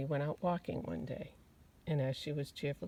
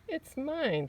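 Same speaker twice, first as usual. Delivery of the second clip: squealing vole; 10 semitones higher, 4 dB louder than usual. Acted. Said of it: "squealed the vole".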